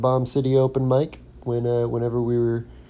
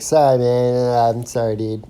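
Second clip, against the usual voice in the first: imitating Mark's voice; 6 dB louder than usual. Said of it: "I love Mark's voice".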